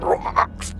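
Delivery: guttural burst from a stomped beast; creature's death croak. A narrator's reading. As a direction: croak like a creature being crushed. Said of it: "was the sound that came out of it".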